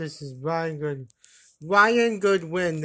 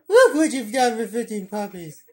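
laughing scold; 3 semitones higher, 4 dB louder than usual. Pretend.

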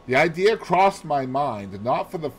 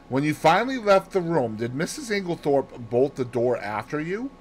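lightly voiced detective making inquiries; a hint of an inquiring detective; Poirot questioning; 5 semitones higher than usual. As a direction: question a witness methodically.

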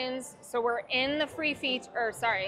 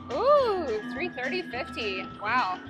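excited; slower than usual. Real, not acted. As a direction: gasp with delight at the win. Big multiplier win.

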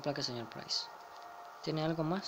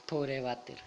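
laughing pity; 3 semitones lower, slower than usual. Real, not acted. Laughing at clogged toilet.

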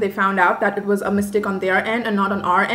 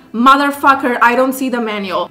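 angry; 4 dB louder than usual. Real, not acted. Frustrated outburst.

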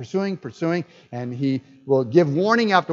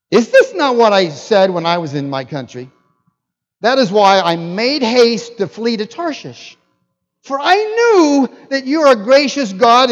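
indignant complaint to God, louder; mildly acted anger, building higher; angry prophet; 4 semitones higher, 4 dB louder than usual. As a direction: protest as an aggrieved prophet. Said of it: "and he was angry".

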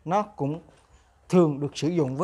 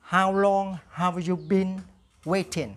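slow, clear repeat-after-me English, same again; slow drill model; slower than usual. Shown as a demonstration. Teacher repeats the drill question slowly for students. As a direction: leave room for the class to echo. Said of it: "Now repeat after me".

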